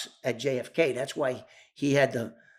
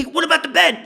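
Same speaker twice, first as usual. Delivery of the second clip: much higher, louder, pressing; anxious question; 13 semitones higher, 6 dB louder than usual. Retold or imitated. Joey demanding about the bed, much higher. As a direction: demand an answer fast.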